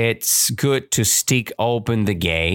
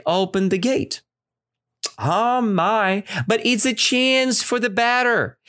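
put-on cheerful old woman; 5 semitones higher than usual. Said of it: "teacher voices the old woman".

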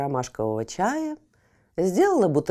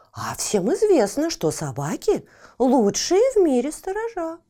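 lightly voiced Fifochka; 5 semitones higher, 4 dB louder than usual. Fifochka argues dogs guard.

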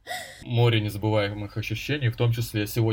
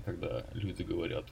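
pleasant voice; 2 semitones lower, 10 dB quieter than usual. Shown as a demonstration. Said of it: "говорила приятным голосом".

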